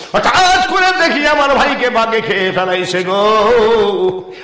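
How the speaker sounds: mock crying, drawn out at the end; fake wailing. Brothers lying to their father about the tiger, fake wailing. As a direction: wail it like a put-on sob story. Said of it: "চিৎকার করে ভুয়া কান্দা কান্দে".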